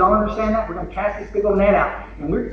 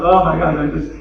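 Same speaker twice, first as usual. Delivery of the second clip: mock hangover vow; 7 dB louder than usual. Hungover vow, retold.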